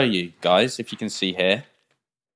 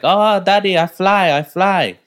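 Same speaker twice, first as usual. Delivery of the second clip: high, thrilled mock kid voice; put-on Russian kid, pitched high; Russian child; 9 semitones higher, 4 dB louder, slower than usual. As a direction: squeal it like a delighted child pilot. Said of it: "they brought their kids into the cockpit".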